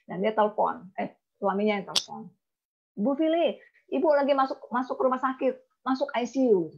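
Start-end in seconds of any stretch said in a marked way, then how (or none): 3.0-6.7 lightly voiced caller breaking news; husband's phone report. Husband phones agent about wife in hospital, lightly urgent report.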